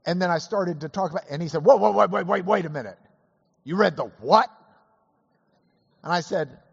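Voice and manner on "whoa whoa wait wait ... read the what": louder retold disbelief, stopping him short; mock astonished interruption. Scalia cutting off the preacher in mock astonishment. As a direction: imitate an incredulous interruption.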